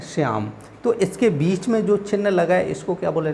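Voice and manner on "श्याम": श्याम alone, dropping lower; श्याम as its own falling item; separate after pause. Shown as a demonstration. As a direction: land श्याम after a brief stop. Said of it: "थोड़ा रुकना है".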